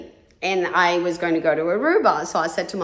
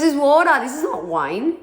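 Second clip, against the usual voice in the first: loud, higher mock insistence on water; insistent retelling; 5 semitones higher, 3 dB louder than usual. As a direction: push the word water out, then ease off. Retold friend insisting it's water.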